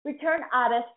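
"Return artist" with a full r sound, Boston accent avoided; careful return. Shown as a demonstration. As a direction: say "Return artist" with the r clearly pronounced. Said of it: "my Boston accent slipping in there".

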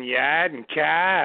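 YAD and KAI, both without R; imitated New England accent. Mimicking how Flash talked, YAD and KAI without R. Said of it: "you know, saying Yad".

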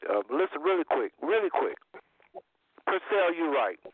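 talking through a bite; mouth full. Real, not acted. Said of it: "excuse me if I sound like I got food in my mouth".

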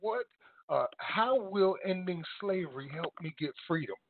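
measured, word by word; deliberate question with a pause after "What"; slowly, deliberately. Shown as a demonstration. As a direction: say it slowly so it sinks in. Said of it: "say to yourself slowly".

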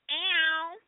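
high whooping cheer. Real, not acted. Cheering own big news.

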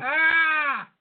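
sudden loud cry of recognition; excited. Real, not acted. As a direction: realize it all at once. Recognizes the answer naming a singer.

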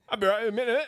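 high Cockney stoker voice; Cockney accent. Pretend. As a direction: call it out in Cockney. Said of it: "why you guys have a Cockney accent".

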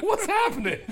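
high, laughing bewilderment; high laughing double take; laughing shock. Retold or imitated. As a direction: act stunned by the news. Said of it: "And I went".

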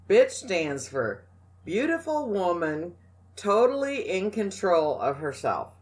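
each word of the slogan weighted and spaced out; emphatic slogan. Shown as a demonstration. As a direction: spell out the slogan word by word like a cheer. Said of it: "every one of you need to know this".

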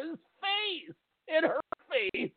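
giggling through the words; can't stop laughing; hiccup giggles. Real, not acted. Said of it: "I can't stop laughing at this".

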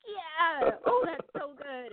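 high, eager amen to a sermon; vocal agreement. Retold or imitated. Coworkers overhear her reacting to a sermon, a lightly excited yeah. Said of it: "so I'd be like".

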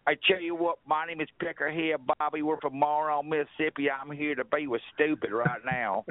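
a light mock Southern redneck drawl. Caller introducing himself to hosts in a lightly hammed-up Southern drawl. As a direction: caller hamming it up as a good old boy from Mississippi. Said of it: "Get that real Southern kind of drawl".

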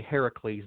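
Heracles as HAIR-uh-kleez, no Y-glide; Greek-style Heracles, stressed on the first syllable; ancient pronunciation. Shown as a demonstration. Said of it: "the ancient pronunciation".

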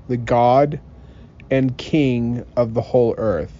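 solemn, declaiming scripture reading. Acted. Reads scripture aloud.

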